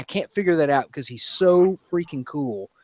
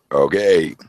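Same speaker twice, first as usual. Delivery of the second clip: a deep burp pushed through the word; 11 semitones lower than usual. Real, not acted. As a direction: say it as one long burp. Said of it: "That was me just talking in a burp".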